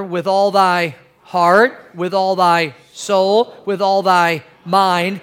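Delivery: slow recitation. Real, not acted. Congregation reciting scripture together.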